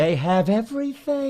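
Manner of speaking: high mock Italian accent; hammed-up Italian, pitched high. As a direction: play it up as a comic Italian. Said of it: "in an Italian accent".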